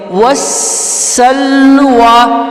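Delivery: والسلوى slow, with the ی silent; والسلوى drawn out, ending on a long a; recited correctly. Shown as a demonstration. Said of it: "تو اس کو ہم پڑھیں گے". (والسلوى آہستہ، ی خاموش)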